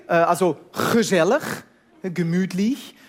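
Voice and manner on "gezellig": "gezellig" with a throaty Dutch g at the start; Dutch guttural g. Shown as a demonstration. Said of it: "alle wichtigen Wörter fangen an mit".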